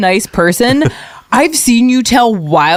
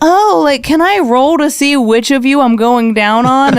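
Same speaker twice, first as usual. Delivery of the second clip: higher, hammed-up coy voice; flirty player; 5 semitones higher than usual. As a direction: play the horny bard asking sweetly. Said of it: "And I'm like".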